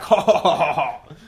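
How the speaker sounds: Mister Twist mocking Pete with a laugh. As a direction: laugh it out, spaced and taunting. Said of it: "he's like".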